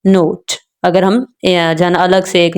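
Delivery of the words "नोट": नोट said as one fully stressed word. Shown as a demonstration. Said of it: "पूरा word को भी जो है ना हम स्ट्रेस देके पढ़ते हैं". (पूरे नोट पर ज़ोर)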